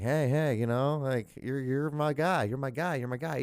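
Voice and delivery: repetitive, placating encouragement; mock pep talk. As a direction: act out coaxing a struggling player. Retold coach reassuring his quarterback.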